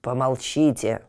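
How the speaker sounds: low commanding oak. Acted. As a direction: order silence with authority. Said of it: "прозвучал властный голос дуба".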